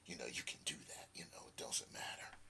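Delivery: hushed, low serpent murmur; sly serpent under the breath; tempting serpent. Retold or imitated. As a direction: coax very softly, almost whispering. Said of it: "some serpent said".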